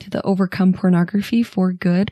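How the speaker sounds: measured, scripted show opening; podcast intro read. Acted. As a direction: read the welcome as a prepared intro.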